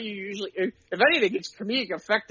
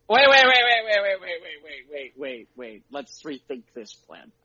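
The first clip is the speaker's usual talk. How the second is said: hoped-for player; 6 semitones lower than usual. Retold or imitated. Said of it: "somebody would go".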